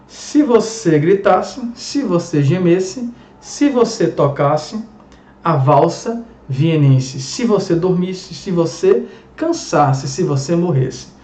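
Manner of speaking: slow, rising lines read like a poem. Shown as a demonstration. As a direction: savour each "se você" line slowly. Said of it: "De Carlos Drummond de Andrade". (leitura lenta de poema)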